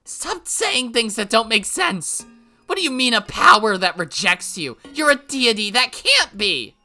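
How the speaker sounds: loud, high, exasperated; furious yell. Acted. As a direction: yell at her to hurry up. Rika argues with Hanyu.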